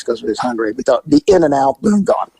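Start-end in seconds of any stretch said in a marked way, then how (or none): 1.1-2.3 high, quick and cocky; tossing off an easy in-and-out plan; breezy confidence. Retold or imitated. To his rookie partner, high and breezy.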